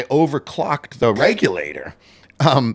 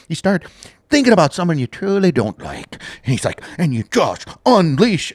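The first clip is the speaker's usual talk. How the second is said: fired-up Irish chef; 4 semitones higher than usual. Retold or imitated. Imitating the bread video chef, fired up. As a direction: egg them on to beat the dough like a brawler. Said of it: "he would be like".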